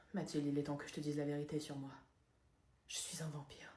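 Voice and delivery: low, hushed, dropping to a whisper; grave confession. Acted. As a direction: reveal a dark secret under your breath. Aveu solennel de vampire.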